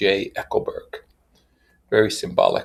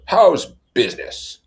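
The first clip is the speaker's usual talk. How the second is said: breezy Tom voice; 10 semitones higher, 6 dB louder than usual. Acted.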